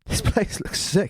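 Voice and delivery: high, hushed gasp of wonder; amazed. Retold or imitated. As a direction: breathe it out, amazed. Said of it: "I was like".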